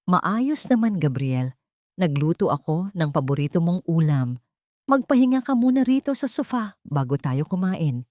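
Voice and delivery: lightly voiced loving wife; mild tenderness hiding a tremble; sweet, tender reply. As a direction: answer sweetly, holding the voice steady. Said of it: "Malambing na sagot ni Maya".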